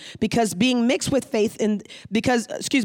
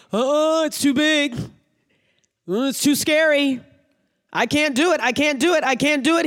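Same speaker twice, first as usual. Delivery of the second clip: whiny scared believer; 5 semitones higher than usual. Retold or imitated. Believer complaining to God that it is too big, whiny and higher. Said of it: "are you just gonna say".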